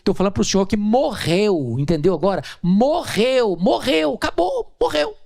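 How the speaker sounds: high, fast, rising exasperated insistence; mock-angry wife losing patience; exasperated woman. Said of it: "Ela olhou brava pra mim e disse".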